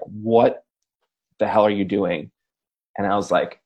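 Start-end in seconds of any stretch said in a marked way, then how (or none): none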